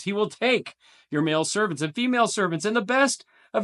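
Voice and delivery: He will take pitched high, best leaned on; stress on take. Shown as a demonstration. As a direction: press the repeated take. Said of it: "I tried to emphasize it for you".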